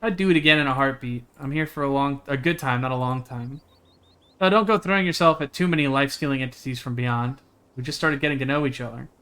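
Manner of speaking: plain, even reading of a character's lines; lightly voiced game dialogue. Streamer reading the friend's dialogue, lightly voiced. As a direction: read the friend's lines out steadily.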